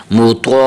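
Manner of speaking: مو تو with a thick, full ط sound; heavy ta. Shown as a demonstration. Teacher to students: read the تو heavy and full. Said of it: "اس طرح".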